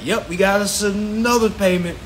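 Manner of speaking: a hint of a gloating CEO; lightly voiced boss counting profit; smug CEO. CEOs in the back, lightly mocked as gloating. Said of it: "and saying".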